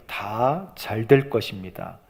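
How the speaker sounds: slow, soft, low-pitched reassurance; composed, drawn-out soothing answer; calm reassurance. Acted. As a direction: say it slowly and quietly, keeping trouble hidden. 여인이 남편을 안심시키는 말 재연.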